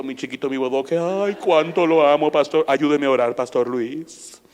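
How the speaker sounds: imitating a fussy mom who can't stop gushing about her son; pleading doting mother. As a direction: lay on the mother's fuss, whining over her baby boy. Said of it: "una hermana que vino a la iglesia y me dijo".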